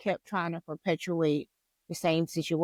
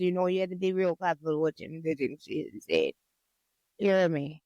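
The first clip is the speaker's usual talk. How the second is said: put-on Jamaican accent; 3 semitones lower than usual. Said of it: "my Jamaican accent".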